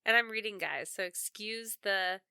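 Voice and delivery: talking with a stuffy nose; sick, congested voice. Real, not acted. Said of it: "excuse the snotty mess of me".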